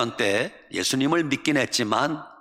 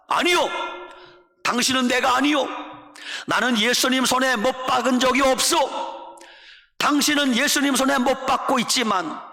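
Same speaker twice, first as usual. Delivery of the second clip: high-pitched, insistent protest; emphatic denial; 7 semitones higher than usual. Retold or imitated. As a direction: deny it hotly, pitch pushed up. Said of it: "윌리엄 부스가 부인합니다". (목소리를 높여 강하게 부인)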